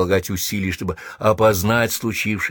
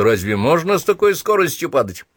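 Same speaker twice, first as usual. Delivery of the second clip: higher, wondering question; surprised question; 7 semitones higher than usual. A narrator's reading. Sergeant wondering at the commander's sudden fall, surprised question. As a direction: ask it in raised-pitch astonishment. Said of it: "Вахмистр ещё удивился".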